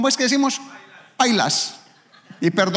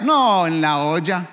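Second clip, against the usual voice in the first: slow gloomy reply; 4 dB louder, slower than usual. Acted. A broke man answering about money, slow and glum. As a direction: drag it out, down in the dumps.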